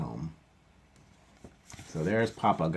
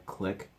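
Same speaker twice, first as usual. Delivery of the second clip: camera click; 8 dB quieter than usual. A narrator's reading. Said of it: "said the camera".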